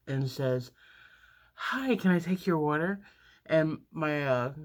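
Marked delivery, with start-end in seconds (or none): 1.5-3.0 hyper waitress. Retold or imitated. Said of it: "she's all hyper and stuff".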